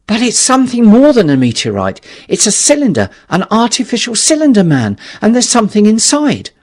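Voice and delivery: loud, high, rushing explanation; frantic insistence; urgent excitement. Acted. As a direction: press it on him urgently.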